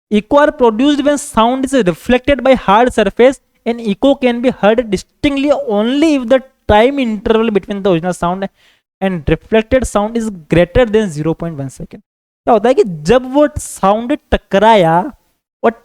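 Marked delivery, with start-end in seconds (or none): 0.1-12.0 very slow, word by word for copying; measured note-dictation voice. Acted. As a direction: dictate it so students can write it down. Teacher dictates notes in English.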